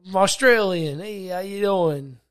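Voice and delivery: half-hearted Aussie greeting; drawn-out amateur Aussie; mock Australian accent. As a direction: try out a shaky-quality fake Australian accent. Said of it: "how our Australian accent is".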